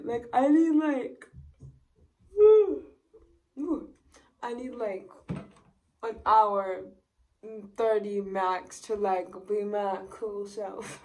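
talking while brushing teeth; mumbling through a toothbrush. Real, not acted.

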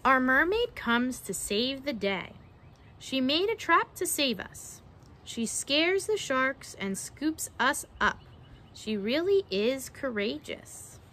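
measured picture-book storytelling; reading to children. Acted. Narrator reading a mermaid-trapping rhyme to children, storytelling. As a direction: read it out with a lilting rhyme.

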